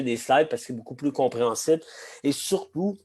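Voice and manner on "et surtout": real catch in the throat, pitch jumping up; frog in throat. Real, not acted. Presenter opening a masterclass, frog in the throat. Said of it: "j'ai un chat dans la gorge".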